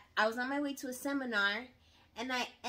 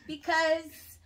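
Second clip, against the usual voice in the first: loud, emphatic and indignant; 5 semitones higher, 10 dB louder, slower than usual. Real, not acted. Wife to husband on camera, loud and indignant. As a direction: insist you had every right to be annoyed. Recalling being annoyed at husband.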